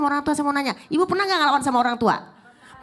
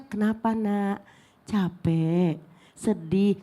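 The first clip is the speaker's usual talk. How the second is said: put-on softer, lower, caring question to the child; gentle mother; 3 semitones lower, 4 dB quieter, much slower than usual. Shown as a demonstration. Mother gently naming her child's tired feelings. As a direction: ask softly like a gentle mom. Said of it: "Padahal harusnya".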